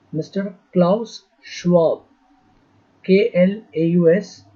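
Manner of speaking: slow name, then spelt letter by letter; slow dictation. Real, not acted. Teacher giving students an important name, slow dictation. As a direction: dictate the name with spaced words.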